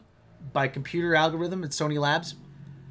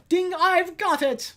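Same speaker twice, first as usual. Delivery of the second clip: high, slow eureka; idea ding; 12 semitones higher, 4 dB louder, slower than usual. Retold or imitated. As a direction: sing out the sudden idea. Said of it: "a light bulb went off".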